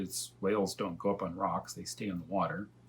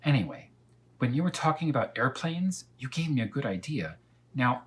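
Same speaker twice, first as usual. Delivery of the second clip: higher, coaxing cat voice; persuasive cat; 4 semitones higher than usual. Acted. Cat coaxing Elmer to rescue the dragon, higher. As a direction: tempt him with the idea.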